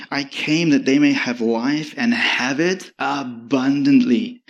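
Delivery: slow, measured reading of scripture. Acted. Pastor reads Jesus' words to the congregation, slow and solemn. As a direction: read the words of Jesus with weight. Reads John ten aloud.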